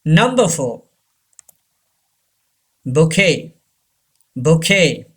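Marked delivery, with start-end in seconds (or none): 2.8-3.5 bouquet as "bo-KAY"; silent T. Shown as a demonstration. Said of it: "T is silent". 4.3-5.0 bouquet as "bo-KAY"; silent T. Shown as a demonstration. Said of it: "T is silent".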